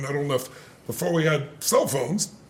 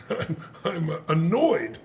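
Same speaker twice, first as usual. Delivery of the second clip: hesitant, understated mimicry of a calm partner; imitated mild annoyance; slower than usual. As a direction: barely admit to being bothered, halting. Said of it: "I'm hearing him say".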